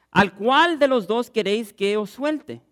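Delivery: slow, stately governor's question; governor asking. Acted. Governor asks the crowd which prisoner to free, slow and stately. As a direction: lay the choice before the crowd, slowly. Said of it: "respondiendo el gobernador les dijo".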